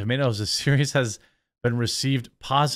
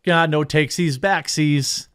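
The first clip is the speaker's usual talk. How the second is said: put-on louder, smug childish taunt; smug mocking; 4 semitones higher, 5 dB louder than usual. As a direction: needle them like a gloating Brit. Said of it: "all smugly like".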